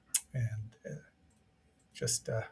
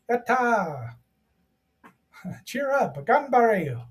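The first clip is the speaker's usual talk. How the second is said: excited cheer; 8 semitones higher, much slower than usual. Real, not acted. Cheering the robots on.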